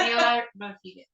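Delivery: Neila Rodriguez in a Scottish accent. Real, not acted. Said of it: "In my very Scottish accent".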